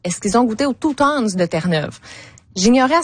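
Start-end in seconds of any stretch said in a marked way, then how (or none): 0.7-1.3 "Two Tons" said like French "tou-tonne"; wrong French-style pronunciation. Retold or imitated. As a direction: read "Two Tons" as a French speaker would from print. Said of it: "je n'avais pas la bonne".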